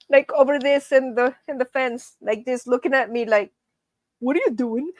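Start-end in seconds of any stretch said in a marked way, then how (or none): 4.2-4.9 imagined dog voice, lightly put on; lightly voiced curious dog; dog's inner voice. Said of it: "That's how she sounds like in my head".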